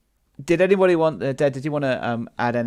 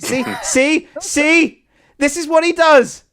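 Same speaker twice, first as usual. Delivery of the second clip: high, loud evil villain voice; Vista voice; 7 dB louder, slower than usual. Retold or imitated. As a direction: go big and unhinged, like a villain. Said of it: "it's the Vista voice".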